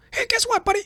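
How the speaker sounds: very high, squeaky, rambling name-calling; a cartoon-high Biden calling Trump a whiner; squeaky parody of Biden trading insults, losing the thread; mocking Biden insults. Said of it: "Biden did chime in with the insults".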